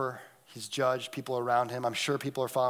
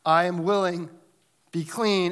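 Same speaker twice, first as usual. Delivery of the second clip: louder, firm command; authoritative Jesus; 3 semitones higher, 4 dB louder than usual. Acted. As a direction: speak it with authority.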